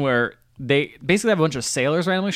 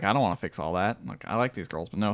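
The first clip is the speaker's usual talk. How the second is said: a singer's voice; 9 semitones lower, 9 dB quieter than usual. Retold or imitated. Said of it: "And Meatloaf is like".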